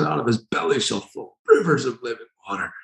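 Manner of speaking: mock cry with softened volume. Preacher acts Jesus promising living water, crying out. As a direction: proclaim it as a far-reaching call, held back in volume. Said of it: "crying with all his voice".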